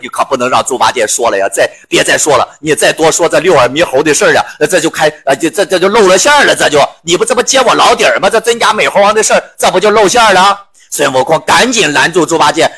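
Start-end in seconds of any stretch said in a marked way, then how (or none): 0.0-10.6 fast, flustered stammering; panicked. Acted. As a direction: hurry to hush it up. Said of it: "这孙悟空害了怕了".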